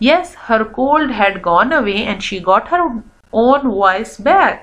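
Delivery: put-on reading a story aloud to children, very slowly; slow, careful read-aloud for kids. A narrator's reading. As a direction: read each word out slowly for young learners. Teacher reads English story aloud.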